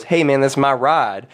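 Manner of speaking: lightly imitated Southern accent; down-home Southern boy, lightly voiced; a hint of Southern twang on the vowels; Southern drawl. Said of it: "he's a Southern dude".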